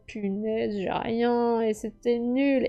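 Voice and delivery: dejected groan. Retold or imitated. To herself over a bad draw, soft, slow and deflated. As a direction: let the words sag, slow and disappointed. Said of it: "j'étais en mode".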